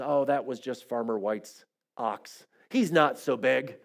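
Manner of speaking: low, slow, unimpressed father; calm storybook dad, brushing it off; dismissive father frog. Acted. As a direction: play it down, slow and soft.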